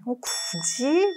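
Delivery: soft, slow, doubting; why bother, said doubtfully; skeptical. Retold or imitated. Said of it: "막 이런 느낌". (굳이? 하고 시큰둥하게)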